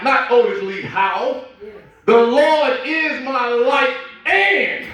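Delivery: slow, weighty reading, each phrase hammered; emphatic scripture reading. Acted. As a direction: read the psalm like a proclamation.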